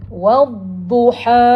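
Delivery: "wadduha" very slow with long vowels; recitation demo. Shown as a demonstration. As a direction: stretch "wadduha" out in a sustained recitation. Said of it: "Kita tak baca".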